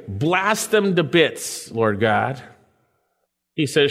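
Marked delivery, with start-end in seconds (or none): 0.1-2.4 vengeful prayer. Retold or imitated. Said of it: "He doesn't say".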